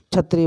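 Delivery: छत्री with a plain "chh" for "ksh"; mispronounced क्षत्रिय. Shown as a demonstration. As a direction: say छत्री, the slipped form of क्षत्रिय. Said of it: "शब्दों के उच्चारण की शुद्धता".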